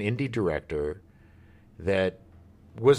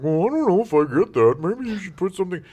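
mocking studio exec; 6 semitones higher, 5 dB louder, faster than usual. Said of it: "and they're like".

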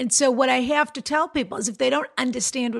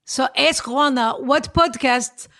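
Israeli accent; 3 semitones higher, slower than usual. Shown as a demonstration. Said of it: "with an Israeli accent".

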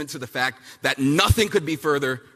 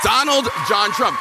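shouted name; 3 semitones higher, 4 dB louder than usual. Real, not acted. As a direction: call out the name loud, hyped. Rally cheer-style name shout.

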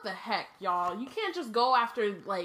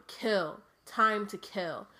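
cold murderous voice; much slower than usual. Acted. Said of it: "cold, murderous voice".

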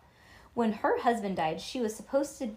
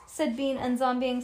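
ordinary delivery

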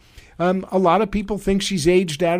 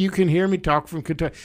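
Mitch McConnell, marble-mouthed; faster than usual. Acted. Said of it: "I need an interpreter".

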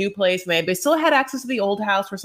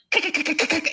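strangled duck quack; 6 semitones higher than usual. Retold or imitated. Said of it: "but it's like".

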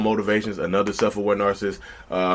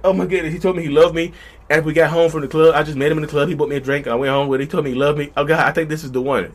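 a mock giddy gush, a little higher; giddy girl; 5 semitones higher than usual. Imitating a giddy girl who met a man at the club, gushing. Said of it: "She was like".

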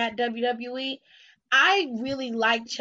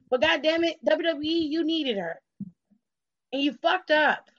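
raised, heated scolding of the company; angry outburst; 5 semitones higher than usual. Real, not acted. Fan scolding WWE for wasting Mickie James, angry. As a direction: let the frustration boil over.

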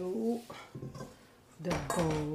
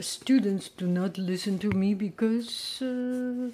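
loud, emphatic complaining; loud rant; 10 dB louder than usual. Real, not acted. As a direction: vent it out loudly.

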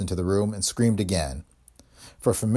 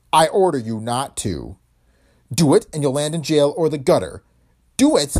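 loud, rising stern threat; 5 semitones higher, 5 dB louder than usual. Acted. De Leon sternly threatening the dame. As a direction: threaten her hard.

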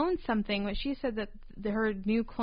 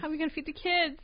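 higher, hammed New England wife; mock New England accent; 6 semitones higher, faster than usual. Echoes the wife bit.

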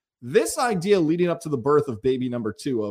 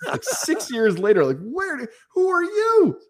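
incredulous; 8 semitones higher than usual. Real, not acted. Baffled by stranger's message.

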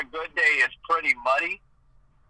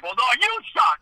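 higher, playful "you suck" with stress on "you"; mock comeback; 7 semitones higher, faster than usual. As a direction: fire back a joking retort. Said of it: "it's like".

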